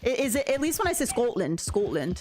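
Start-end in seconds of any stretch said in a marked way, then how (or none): 1.1-1.6 a light try at Scottish; hint of a Scottish accent on the name; attempted Scottish accent. Shown as a demonstration. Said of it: "I still can't do a Scottish accent". 1.6-2.2 a light try at Scottish; hint of a Scottish accent on the name; attempted Scottish accent. Shown as a demonstration. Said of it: "I still can't do a Scottish accent".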